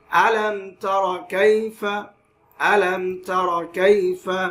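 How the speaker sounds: "আলাম তারা কাইফা" slowly recited, m released cleanly; clear meem, no ghunna. Shown as a demonstration. Quran teacher showing izhar, clear without ghunna. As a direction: stretch the vowels, not the m, in "আলাম তারা কাইফা". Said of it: "স্পষ্ট করে বললাম".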